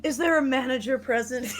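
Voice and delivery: smoker voice. Acted. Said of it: "now I sound like a smoker".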